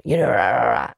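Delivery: low, rough hoarse rah sounds; Tony Robbins rasp. Retold or imitated. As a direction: growl it out like a worn-out hype man. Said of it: "his voice be like".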